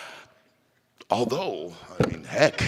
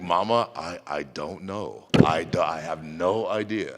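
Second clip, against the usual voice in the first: filho sem jeito; 6 semitones lower than usual. Retold or imitated. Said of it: "I was like".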